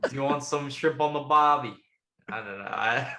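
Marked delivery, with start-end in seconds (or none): 0.1-1.8 amateur stab at Aussie; Australian accent. Acted. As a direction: clumsily attempt an Australian accent. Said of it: "I'm terrible with accents".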